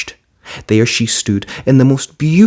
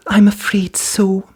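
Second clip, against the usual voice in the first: high, slow whisper; whispered apology; 11 semitones higher, slower than usual. A narrator's reading. Cinderella admitting to the fairy there are mice, whispering. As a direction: say it sheepishly under breath.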